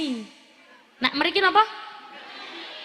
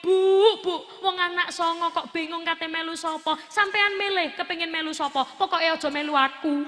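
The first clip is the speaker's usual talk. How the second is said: unpleasant retort; 2 semitones higher than usual. Acted. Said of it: "katik gak enak pisan ngomonge".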